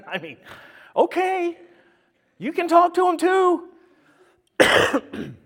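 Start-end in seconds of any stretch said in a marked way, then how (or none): 0.9-3.7 1 grudging elder. Retold or imitated. Elder grudgingly concedes in retold scene.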